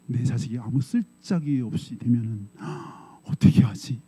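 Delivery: slow, hushed, unvoiced fretting; a touch of dread, whispered to herself; fearful worry. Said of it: "사시나무 떨리더래요". (두려움에 떨며 낮게 속삭이는 엄마)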